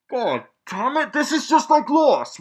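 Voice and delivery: high, rising into a loud gripe; exasperated complaint. Real, not acted. Reviewer griping to viewers about a teased mystery, exasperated.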